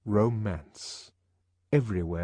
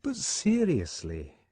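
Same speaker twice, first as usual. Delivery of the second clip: serious change of tone; 7 semitones higher, slower than usual. A narrator's reading. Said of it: "with a sudden change of tone".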